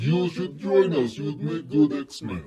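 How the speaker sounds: a deliberately bad Russian accent, drawn out slowly. Reviewer voicing Colossus urging Deadpool to join, in a mock Russian accent. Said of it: "how shitty my Russian accent is".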